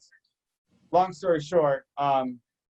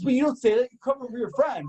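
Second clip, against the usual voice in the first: high-pitched imitated scolding; high, insistent mock protest; retold exasperated objection; 8 semitones higher than usual. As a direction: lecture as the aggrieved coworker. Retelling coworker's argument.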